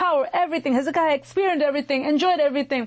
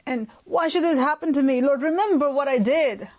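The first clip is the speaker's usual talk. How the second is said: pleading cry; 3 semitones higher than usual. Retold or imitated. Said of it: "at the point he cries out".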